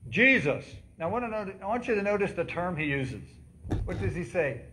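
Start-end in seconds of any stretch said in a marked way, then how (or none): 0.1-0.6 loud call of a beggar; crying out. Retold or imitated. Blind beggar calling out to Jesus, loud cry. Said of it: "he began to cry out to say".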